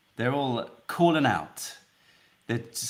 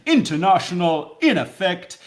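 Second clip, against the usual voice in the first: mock announcer; 6 semitones higher, 6 dB louder than usual. Playful announcer line.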